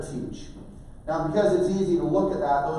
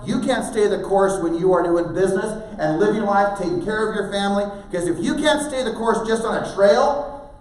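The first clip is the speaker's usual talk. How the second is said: raised, emphatic parental sermon; insistent lecturing; 3 semitones higher, 6 dB louder than usual. Retold or imitated. Parent insisting to son it's a lesson, emphatic. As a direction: hammer the lesson home, loud.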